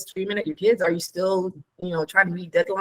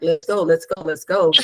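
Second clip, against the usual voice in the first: champion pep. Retold or imitated. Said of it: "I took it like a champion".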